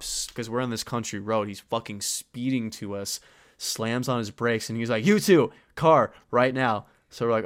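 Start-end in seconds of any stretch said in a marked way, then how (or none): 5.1-6.9 loud, higher, slow command; imitated police shout, word by word; retold cop's order. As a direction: bark orders like a cop pulling up. Cop orders two truant teens.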